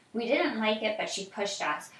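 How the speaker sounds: put-on reading aloud to a child, evenly; story narration. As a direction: tell the story calmly.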